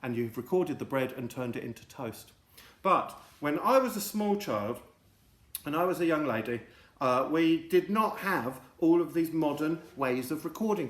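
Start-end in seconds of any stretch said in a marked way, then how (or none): 2.8-10.9 a hint of an old lady, higher. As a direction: reminisce like a little old lady.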